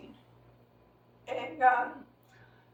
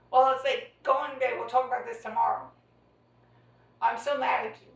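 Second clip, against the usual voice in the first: louder, mock-stern father sending her to bed; imitating dad's angry command; stern order; 6 dB louder than usual.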